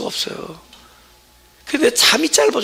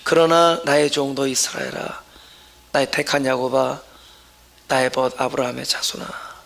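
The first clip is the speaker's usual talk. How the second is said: lower, softer, as if God speaks to you; personal, intimate reading; 8 semitones lower, 4 dB quieter than usual. Shown as a demonstration. Pastor rereads the verse as God speaking to each listener, lower and softer. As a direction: read it as words meant for you alone. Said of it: "지금 그렇게 음성을 들어야 돼요".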